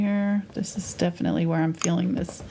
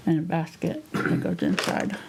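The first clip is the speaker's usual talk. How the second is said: talking around a brush in the mouth; words muffled by a brush held in the teeth; mouth full. Real, not acted. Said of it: "I'm holding my brush in my mouth".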